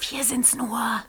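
hushed night whisper. Acted. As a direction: keep it to a breath. Heimliches Flüstern in der Nacht. (geflüstert)

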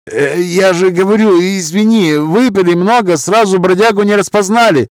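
backing down fast; nervous Roma man. Acted. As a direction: Roma accent, apologetic.

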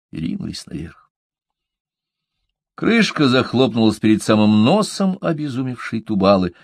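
plain reading voice

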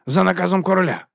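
high, loud, cold command; haughty dismissal. A narrator's reading. Vons taking Vimes's badge, high haughty tone. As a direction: order him off.

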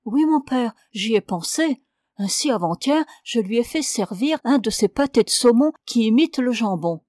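lightly voiced wife confessing to her priest; pious young wife. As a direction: plead her case sweetly to the priest.

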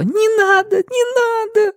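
put-on high, tearful little boy begging; crying child's plea. A narrator's reading. The boy begs the woman to stop, high and tearful. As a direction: plead through tears like a small child. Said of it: "Он, плача, стал просить".

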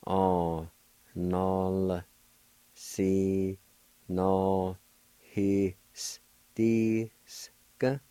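Nol, Si, No, His, Dis, Ka said one by one in Cherokee; слоги по одному; Cherokee syllables. Shown as a demonstration. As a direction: sound out each syllable of the Cherokee word separately. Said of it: "pronounce the L sound with the N A like this".

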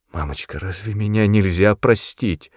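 plain reading voice

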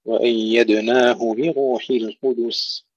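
slow recited وأيدناه بروح القدس, clear hu-bi-ru; full kasra on ba. Shown as a demonstration. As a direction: give "bi" a true i in بروح. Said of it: "نحقق كسر الباء". (وأيدناه بروح القدس بتحقيق كسر الباء)

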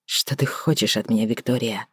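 calm her down gently; a man soothing a furious woman; very soft. A narrator's reading. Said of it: "Его голос звучал очень мягко".

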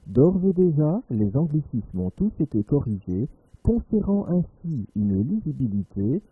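measured radio newsreader delivery; news read. Acted. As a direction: read it like a serious bulletin. Reads a parody news bulletin. (lecture de journal radio)

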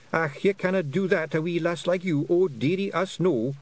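high Scottish pictsie protest; fussing pictsie. A narrator's reading. Imagined Feegle objection in character.

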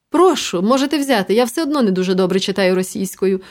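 вище, трохи голосніше, удавано привітно; люб'язно збрехати сусідові; брехлива люб'язність. Acted. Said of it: "починаю брехати я". (удавано привітна пропозиція)

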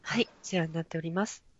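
low, polite business phone greeting; customer service voice. Shown as a demonstration. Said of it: "みたいな感じ".

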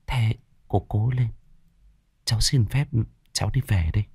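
soft, hesitant words of comfort; gentle consoling. A narrator's reading. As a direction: console a grieving mother quietly, with pauses. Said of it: "nắm lấy vai của bà ấy mà an ủi". (giọng an ủi nhẹ nhàng, ngập ngừng)

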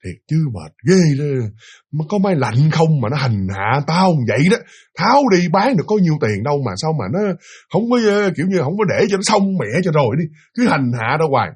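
imitating a mildly exasperated owner; understated, fed-up complaint; weary annoyance. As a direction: grumble as if worn out by the hassle. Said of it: "ông cứ tặc lưỡi".

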